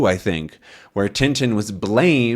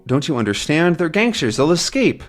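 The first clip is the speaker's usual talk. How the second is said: urgent plea; 5 semitones higher than usual. Acted. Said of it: "and so".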